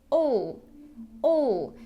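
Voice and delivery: "all" short and relaxed, somewhere between L and ill; gentle schwa. Shown as a demonstration. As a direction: keep "all" tiny and relaxed. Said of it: "this sound is quite gentle".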